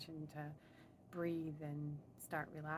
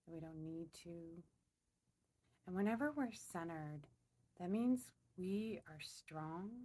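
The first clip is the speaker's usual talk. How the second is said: unhurried meditation voice with long pauses; slow, spaced-out affirmations, calmly led; guided meditation. Real, not acted. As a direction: guide them inward, phrase by phrase. Leads a meditation.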